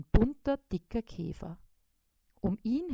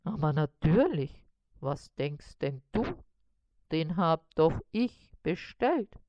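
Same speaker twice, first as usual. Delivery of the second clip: puzzled spider; 3 semitones lower than usual. A narrator's reading. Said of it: "antwortete Karl-Heinz verwundert".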